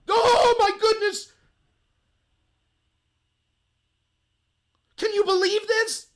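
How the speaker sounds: real disbelief, slow and loud. Real, not acted. Host exclaims in disbelief.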